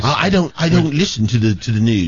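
a hint of Limey's accent, teasing; imitating a coworker's accent. Host teasing co-host Limey while mimicking his accent. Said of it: "What's wrong with your voice?".

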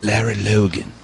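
put-on South African accent; crisp imitation of a South African accent; South African-style accent. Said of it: "Wow, that's a good accent".

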